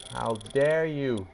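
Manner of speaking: drawn-out mock indignation on How dare you; slow outraged repeat. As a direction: stretch each word like a wounded brand. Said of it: "Beyond livid, beyond pissed".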